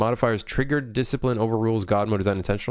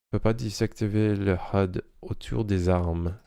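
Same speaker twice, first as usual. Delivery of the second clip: French accent. Shown as a demonstration. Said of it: "That French accent?".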